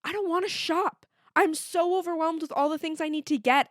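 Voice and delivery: high, whiny overwhelmed voice; overwhelmed whine. Retold or imitated. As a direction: whine like a stressed shopper. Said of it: "I'm like".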